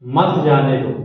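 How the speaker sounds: मत जाने दो as one falling phrase; grouped after the pause. Shown as a demonstration. Teacher completes the example after stopping, मत जाने दो grouped together. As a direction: keep मत joined to जाने दो. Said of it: "पहले रुकिए".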